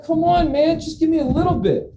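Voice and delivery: very high, pleading whine; hammed-up pleading to the scale. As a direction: beg the scale for mercy. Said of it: "And I'm like".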